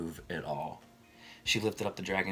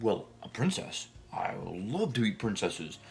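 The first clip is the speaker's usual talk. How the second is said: a lazy, self-satisfied dragon brushing her off; smug dragon voice. Acted. Busy dragon to the princess.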